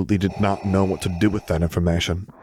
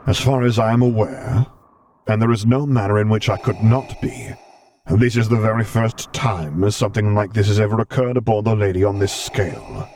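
measured and grave, a touch amused; the Vader voice, held steady; Vader's voice; 4 dB louder than usual. Acted. Vader's voice held across lines.

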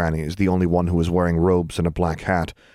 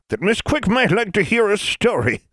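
ancient crone voice; 4 dB louder than usual. A narrator's reading. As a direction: creak it out like an ancient witch. Granny Ford speaks.

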